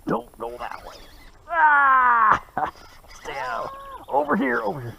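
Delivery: high, urgent calling out; calling from far away. Real, not acted. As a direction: call out to steer the fish. Steering the fish to shore.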